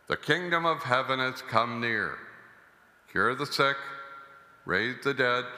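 solemn liturgical reading; Gospel reading. Acted. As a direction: proclaim the Gospel at mass. Priest proclaims the Gospel.

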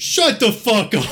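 high-pitched imitation of an unhinged outburst; crazy guy. Crazy train rider right in a man's face, mock outburst. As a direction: burst out like the crazy heckler, voice jumping up. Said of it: "the crazy guy goes".

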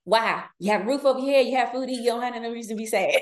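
lightly voiced stern parent, scoffing; mock dismissive parent. Mother mimics her own parents scolding a sad child, mildly mocking. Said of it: "it sound like my parents".

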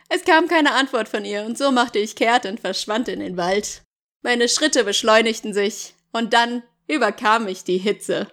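measured audiobook reading; story narration. Acted. Jacob recounting losing Bella, story narration. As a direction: read it as Jacob's dramatic account.

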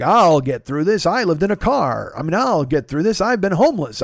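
lightly acted stubborn self-reliance; a hint of jaw-out bravado, leaning on the words; jut-jaw tough talk. Telling himself he'll get through it, lightly acted jut-jaw toughness. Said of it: "I've always done the Jut Jaw thing".

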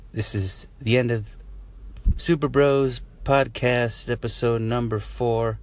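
slow, drawn-out show outro; announcer voice. Acted. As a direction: announce the episode title slowly. Podcast outro announcer read.

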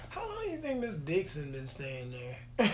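retold question with emphasis on "Dixon"; stress on Dixon. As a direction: lightly punch "Dixon" in the question. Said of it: "I emphasized the name Dixon".

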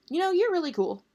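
put-on high, admiring girl's voice; girlish admiration. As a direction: gush the compliment up high. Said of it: "Then she added".

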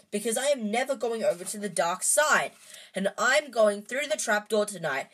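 defiant outburst to his friends; shouting. A narrator's reading. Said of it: "Harry shouted".

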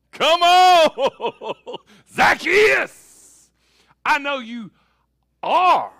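loud, high call with a laugh; joyful shout. Retold or imitated. Jesus calling Zacchaeus down from the tree, a joyful shout. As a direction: call him down with joy.

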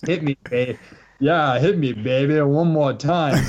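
lightly voiced Swedish accent, laughing; a hint of Swedish songwriter. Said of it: "in a Swedish guy's voice".

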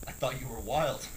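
low, soft dry jab; understated punchline, quietly imitating the instructor; quiet retold deadpan. Instructor's deadpan punchline after the yelling.

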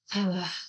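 heavy breathless sigh; winded sigh. Shown as a demonstration. Showing how winded she got on the steep hike, a breathless sigh. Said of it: "I'm winded".

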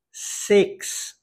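"six" as "secks", short relaxed vowel; "six" with the short English I. Shown as a demonstration. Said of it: "O I com som de E".

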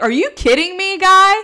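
mock-indignant crowd yelling, pitched high; retold outrage. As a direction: act out bystanders losing it at the agent, half-shouted. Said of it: "like, flipping out on him".

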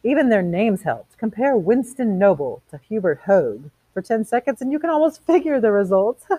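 lightly voiced chatty socialite, lively pitch; gossipy woman. Women gossiping to each other about the election, lightly mocking. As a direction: gossip dismissively about the candidate.

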